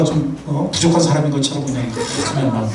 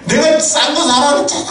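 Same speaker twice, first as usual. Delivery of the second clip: much higher, louder imitated scold; mock scolding yell; 9 semitones higher, 4 dB louder than usual. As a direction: scold the husband loudly, mockingly. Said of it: "목소리 올라가는".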